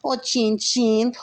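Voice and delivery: very high, eerie, drawn-out creature voice; eerie demon voice. Acted. Dark lord calling to sleeping Frank, very high eerie voice. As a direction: call like an otherworldly dark lord.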